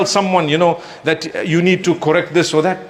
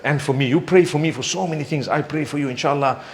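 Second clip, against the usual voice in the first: softer, lower, kind encouragement; gentle encouragement; 5 semitones lower, 5 dB quieter than usual. Shown as a demonstration. Preacher showing how to gently advise a smoker, soft and kind. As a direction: ease him toward change with warmth. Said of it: "But you say".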